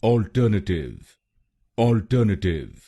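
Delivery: अल्टरनेटिव at normal pace, ɔlʈənəʈɪv; model word. Shown as a demonstration. Teacher repeats the model word. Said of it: "तो बनेगा".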